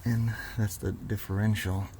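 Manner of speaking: talking while lying under a car. Real, not acted. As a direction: speak from flat on your back under a car. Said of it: "so I'm under the car now".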